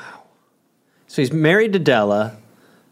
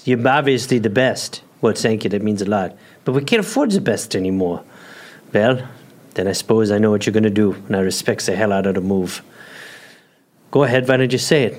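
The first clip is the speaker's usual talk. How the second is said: dramatic firing scene. Pretend.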